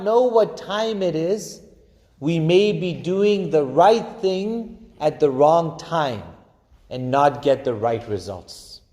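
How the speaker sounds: slow, weighty oratory quote; mild echo of a grand orator; lightly voiced Farrakhan, slow and deliberate; quoting Farrakhan. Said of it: "and he said the following".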